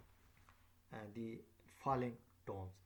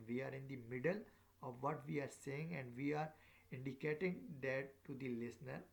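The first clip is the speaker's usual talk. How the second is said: rises at the ends of "middle" and "saying" to show more is coming; circumflex intonation. Shown as a demonstration. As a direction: keep the tune up so nobody cuts in. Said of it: "I just did it".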